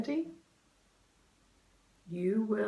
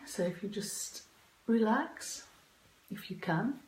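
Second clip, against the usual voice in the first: guided meditation. Acted. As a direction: gently guide them into calm.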